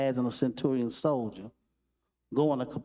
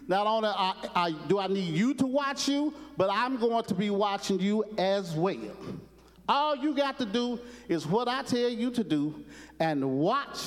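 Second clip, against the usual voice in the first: a hint of a drill sergeant, pitched higher; stern sergeant warning; 5 semitones higher than usual. Sergeant Carter warns Gomer Pyle to behave, stern. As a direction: lay down the law to the recruit, lightly voiced.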